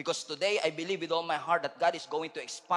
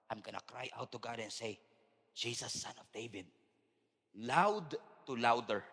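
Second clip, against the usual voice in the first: quiet resolve; 3 semitones lower, 5 dB quieter than usual. Acted. Quiet contrast after shouts.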